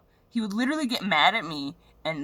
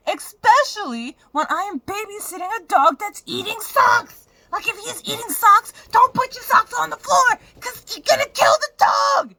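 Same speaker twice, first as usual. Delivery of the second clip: much higher and louder, crying while shouting; a real sobbing rant at a careless ex; tearful furious yelling; 12 semitones higher, 8 dB louder than usual. Real, not acted. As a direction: scream it through tears at him. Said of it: "That shit really upset me".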